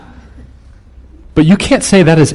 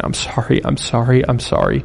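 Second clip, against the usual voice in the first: imitating sobbing apology; 5 dB quieter than usual. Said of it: "she's sobbing".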